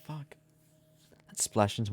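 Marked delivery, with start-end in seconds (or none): 0.1-0.4 slow, pained cry of surprise; startled outburst. Real, not acted. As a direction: blurt it out as it stings. Drink splashed into eye.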